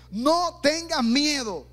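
slow emphatic cry. Retold or imitated. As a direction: call it out slowly, like good news. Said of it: "Y el grito fue". (grito lento y alto de buena noticia)

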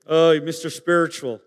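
mocking tease. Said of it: "we used to say that".

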